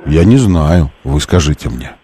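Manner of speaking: ordinary talk, nothing marked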